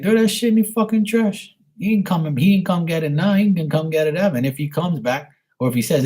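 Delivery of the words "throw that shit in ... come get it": much higher, insistent retold outburst; emphatic retold advice. Telling her friend to dump her ex's stuff, high insistent outburst. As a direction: fling it out like you're fed up. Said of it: "I was like".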